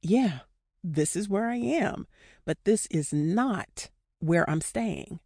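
spaced out phrase by phrase for repeating; deliberate mantra, pausing after "Yeah" and "am". Shown as a demonstration. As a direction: lead listeners through it, slowing on the last phrase. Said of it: "Repeat after me".

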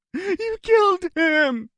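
high, slow wailing cry; hysterical sobbing. A narrator's reading. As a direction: drag it out in hysteria. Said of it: "the hysteria in Barry's face".

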